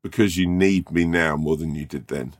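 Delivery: slow, solemn, hammed-up hero line; slow, mock-grave and theatrical; mock dramatic declaration. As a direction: deliver it like a saviour's grand return. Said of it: "And I'd go".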